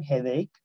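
"headache" repeated as "xeðeik" with a rise; teacher modelling "headache"; pronunciation model. Shown as a demonstration. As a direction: model "headache" again for learners. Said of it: "aquí les con la pronunciación".

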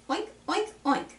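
high-pitched little pig oinks; pig oinking. Retold or imitated. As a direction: oink like a piglet for small children. Voices the pig in picture book.

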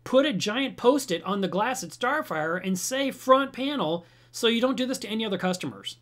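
high, loud, deliberate suggestion; pointed request. Retold or imitated. Asking the company to label the front panel, insistent. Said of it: "And I said".

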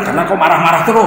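mock scolding retort. Husband's retort to wife, acted.

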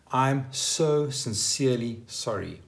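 slow, weighty sincere apology; heartfelt apology. Shown as a demonstration. Owning up to something serious, heartfelt apology. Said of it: "proper apology with a lot of feeling".

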